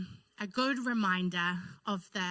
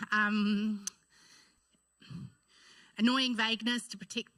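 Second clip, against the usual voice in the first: fighting back tears; tearful. Real, not acted. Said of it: "here goes the waterworks already".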